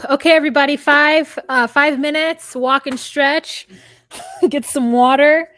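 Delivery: loud, high stage-manager call. Pretend. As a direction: announce the break to the room. Mock producer calling a break.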